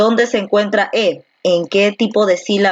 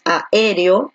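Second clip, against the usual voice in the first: "aéreo" slowly, leaning on the É after A; stress on E. Shown as a demonstration. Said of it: "la fuerza de voz recae aquí en la E".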